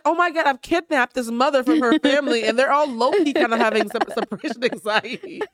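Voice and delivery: high, loud and animated; excited. Retold or imitated. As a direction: gush with mock alarm. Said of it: "And I was like".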